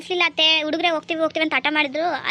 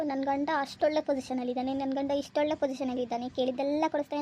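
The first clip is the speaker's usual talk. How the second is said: mocking boast; 7 dB quieter than usual. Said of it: "ಬೀಗ್ತಾ ಇದ್ಲು".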